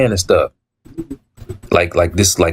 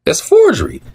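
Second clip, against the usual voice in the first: raised voice; 5 semitones higher than usual. Retold or imitated. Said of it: "I raised my voice".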